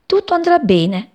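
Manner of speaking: high-voiced gentle reassurance; whispered reassurance. A narrator's reading. Mother sparrow reassures her mate, high and soothing. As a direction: reassure in a high little voice, not truly whispered. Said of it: "gli sussurrava la passeretta".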